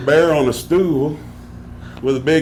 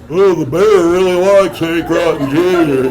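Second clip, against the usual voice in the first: louder mock old showman; imitated old man; 3 semitones higher, 5 dB louder than usual. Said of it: "and the old man goes".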